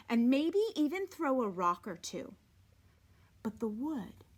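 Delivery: even, unhurried read-aloud voice; story narration. A narrator's reading. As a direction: read the novel steadily to the class. Teacher reads novel aloud to class.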